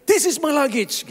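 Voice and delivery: high excited call across the hall; retold shout. Traveller shouting at stranger holding his suitcase, high call. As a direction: call out on spotting your bag. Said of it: "Dan dia teriak".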